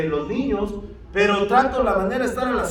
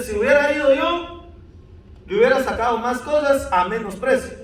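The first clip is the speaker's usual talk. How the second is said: mock reproach, pitched up at the start; retold scolding; 3 semitones higher than usual. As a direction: imitate someone telling you off. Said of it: "Karen me regaña y me dice". (regaño imitado, con reproche)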